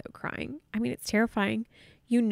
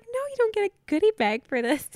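much higher and louder, exasperated; incredulous no; 12 semitones higher, 6 dB louder than usual. Retold or imitated. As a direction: shut down the silly request in disbelief. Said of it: "I was like".

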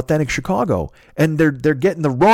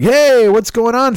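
hammed-up greeting; 9 semitones higher, 5 dB louder, slower than usual. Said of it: "And they're like".

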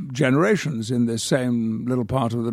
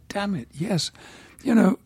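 put-on weary young reporter; 6 semitones higher than usual. Retelling his younger self's complaint.

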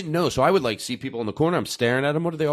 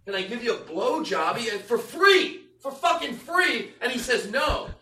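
high whining, slow and aggrieved; whiny complaining man; 10 semitones higher, slower than usual. Retold or imitated. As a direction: complain like a wounded loser. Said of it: "That's him complaining to his friends".

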